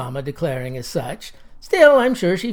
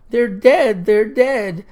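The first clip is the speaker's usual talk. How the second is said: mock weeping chorus; 3 semitones higher, 4 dB louder, slower than usual. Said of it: "a weeping chorus of".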